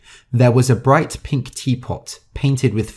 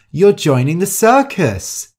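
higher and louder, bursting with hope; hopeful cry; 7 semitones higher, 4 dB louder than usual. A narrator's reading. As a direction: blurt it out eagerly, like a wish. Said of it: "cried out hopefully".

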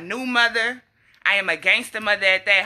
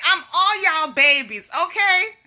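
baby voiced high and slow, ending in a cry; voicing baby; 7 semitones higher than usual. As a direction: speak for the baby, high and drawn out.

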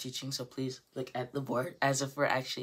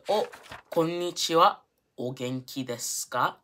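greeting an acquaintance; 3 semitones higher, 4 dB louder than usual. Acted. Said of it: "meeting someone that we already know".

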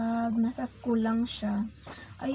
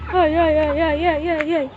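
ay ay ay; 4 semitones higher, 10 dB louder than usual. Real, not acted. Mom reacts to child.

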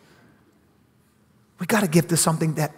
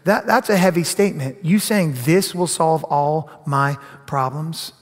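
mock disbelief; 2 semitones lower than usual. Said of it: "And you're going".

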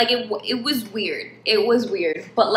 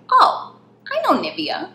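mock excited; 9 semitones higher than usual. Mock excited reply about lotion.

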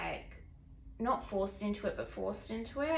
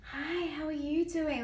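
slow, higher flirtatious greeting; sexy confident escort; 7 semitones higher than usual. Retold or imitated. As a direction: play a confident seductress saying hello. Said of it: "pretending to be this, like, very sexy, confident escort".

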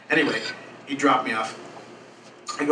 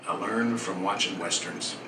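put-on Southern accent; 5 dB quieter than usual. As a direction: do a Westerns-taught Southern accent, unhurried. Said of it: "He had a southern accent".

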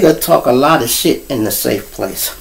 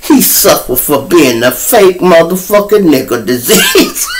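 slow, stretched mock-accent quote; a rapper's line. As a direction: mimic his drawl, building toward a laugh. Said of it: "this the other one here".

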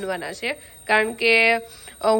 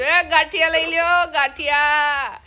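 street hawker; 4 semitones higher than usual. Pretend. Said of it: "ગાંઠિયા પેંડા હું વેચવા માટે નીકળી છું".

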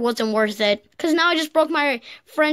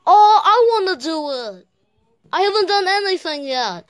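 eager pleading; 3 semitones higher than usual. Acted. Eager kid begging to compete.

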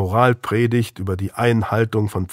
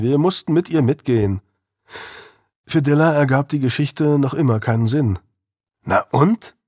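higher, youthful defiant voice; defiant teenage boy; 4 semitones higher than usual. Acted. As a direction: push back like a sulky teen. Narrator voices Louis.

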